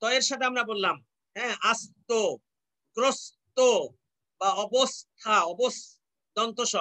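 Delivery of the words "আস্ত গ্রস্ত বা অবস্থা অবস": আস্ত, গ্রস্ত, অবস্থা broken after an English "s"; spaced-out as-to, gros-to, obos-tha; dental s sound. Shown as a demonstration. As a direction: dwell on the s in অবস্থা. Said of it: "দন্ত স বা এস ধ্বনির উচ্চারণ".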